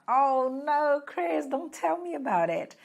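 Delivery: high, drawn-out groan of a complaint; mock dismay. Student reacting to the grammar topic, hammed-up high dismay. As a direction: protest with playful, exaggerated dread.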